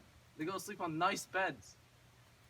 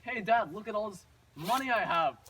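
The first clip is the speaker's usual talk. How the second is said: put-on excited child showing off; 3 semitones higher, 7 dB louder than usual. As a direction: show off the riches excitedly. Acted child showing off treasure.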